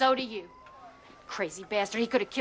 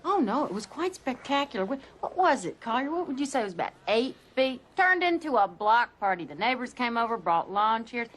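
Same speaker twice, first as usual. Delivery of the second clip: sarcastic. Acted. Mocking reply to That's ridiculous.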